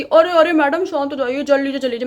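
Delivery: loud teasing put-on voice; mocking coworker. Coworker forcing jokes on her, loud mock taunt. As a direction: mimic the pest taunting again. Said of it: "वो बंदा जबरदस्ती".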